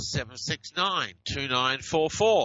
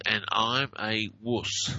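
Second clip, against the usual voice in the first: slow; 2 semitones lower, slower than usual. Shown as a demonstration. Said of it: "And this one says".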